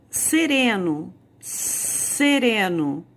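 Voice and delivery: sereno, spelled out slowly with a clear S; slow demo word. Shown as a demonstration. Teacher models sereno slowly for pupils, drawn out. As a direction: stretch out sereno, stressing the S sound. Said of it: "é com S".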